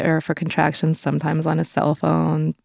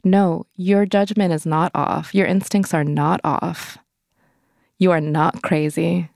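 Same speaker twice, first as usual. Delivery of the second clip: slow reassurance; slower than usual. Retold or imitated. Inner reassurance to herself.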